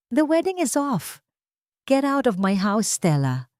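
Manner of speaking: lightly voiced angry fiancé; cold anger. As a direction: throw her out, firm and cutting. Breaking off engagement, ordering out.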